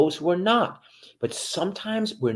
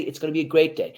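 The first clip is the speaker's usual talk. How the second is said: upbeat demo; faster than usual. Shown as a demonstration. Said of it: "then you're gonna say".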